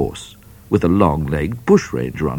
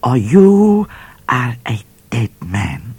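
snarled; 6 semitones higher, slower than usual. Acted. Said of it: "snarled the voice in the bush".

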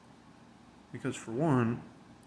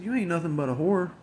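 retold insult; 6 semitones higher than usual. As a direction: spit the insult back up high.

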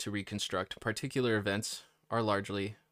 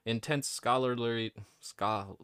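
sticky mouth full; words round a mouthful; mouth full of peanut butter; slower than usual. Real, not acted. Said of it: "I have peanut butter in my mouth".

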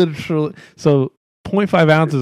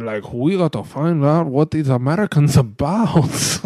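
put-on North Korean accent. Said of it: "that's a terrible North Korean accent".

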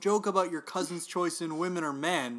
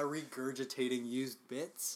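slow, softer, distasteful wording; disgusting-sounding; 6 dB quieter, slower than usual. Real, not acted. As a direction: draw the words out with distaste. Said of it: "sounds disgusting when I say it like that".

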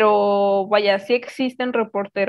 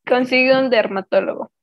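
"Consigo" said louder and clearer for someone who missed it; louder repeat; 4 dB louder than usual. Real, not acted. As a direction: repeat it louder so she hears. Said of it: "¿Qué?".

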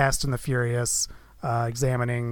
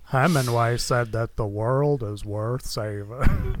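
solemn movie quote; slower than usual. Retold or imitated. Quoting Seven closing line.

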